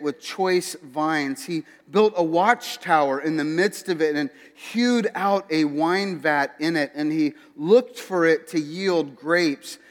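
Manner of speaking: measured, declaimed Bible reading; scripture reading. Real, not acted. Preacher reading Isaiah to the congregation, scripture reading. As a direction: read the passage aloud to a congregation. Reads Isaiah five aloud.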